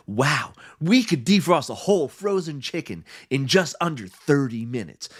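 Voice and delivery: lightly voiced hard sell ad; infomercial voice. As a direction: pitch it like a TV ad. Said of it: "voice and they went".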